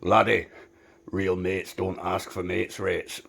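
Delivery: put-on a gentle Scottish accent. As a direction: pass on the old Scottish man's advice. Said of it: "he was Scottish, by the way, I'm not just making an accent up".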